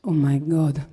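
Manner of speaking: low deadpan verdict, imitating a mother; retold mum. Mum judging her daughter's haircut, lightly imitated low verdict. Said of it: "She just said to me".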